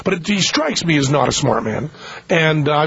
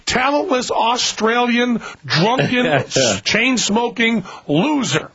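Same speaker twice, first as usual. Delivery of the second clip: mock Aramaic Christ; 5 semitones higher than usual. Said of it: "he's saying in Aramaic".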